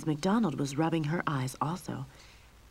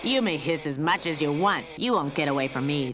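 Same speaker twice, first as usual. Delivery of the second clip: gloating villain; 5 dB louder than usual. Acted. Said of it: "the cat catcher laughed".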